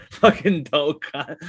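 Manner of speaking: slow, laughing mock Australian; Australian accent. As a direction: echo the Australian insult through laughter. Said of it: "that's when my Australian comes out".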